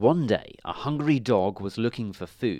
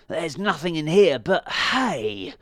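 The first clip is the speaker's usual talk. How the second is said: a slow, higher, louder mock growl; growling dog; 6 semitones higher, 5 dB louder, slower than usual. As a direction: grumble it out as a cross dog. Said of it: "he growled".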